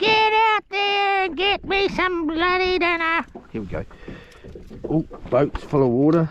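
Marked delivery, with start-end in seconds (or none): 0.0-3.2 very high, dumb, squeaky put-on voice. Retelling what she told the speaker in the pouring rain: dumb put-on voice. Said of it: "I don't know why I'm doing these dumb voices".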